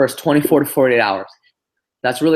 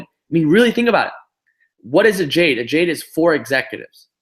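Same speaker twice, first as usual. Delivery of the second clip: higher, faster, driving it home; pumped pitch; 5 semitones higher than usual. Real, not acted. Leader pumping up the network marketing call, excited. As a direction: fire up the team. Sales pitch builds to peak.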